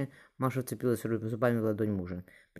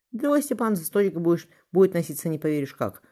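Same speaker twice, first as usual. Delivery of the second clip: amused; 6 semitones higher, 6 dB louder than usual. A narrator's reading. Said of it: "усмехнулась невестка".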